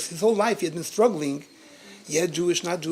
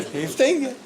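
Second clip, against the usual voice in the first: excited; 8 semitones higher, 4 dB louder than usual. Real, not acted. Insisting on staying, laughing.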